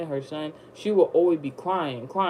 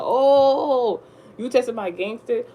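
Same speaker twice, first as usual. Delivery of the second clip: laughing challenge; 6 semitones higher, 4 dB louder, slower than usual. Retold or imitated.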